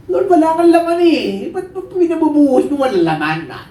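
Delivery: high, comic complaint to God; acted incredulous questioning; puzzled protest. Widow asking why pour an empty jar, high baffled protest.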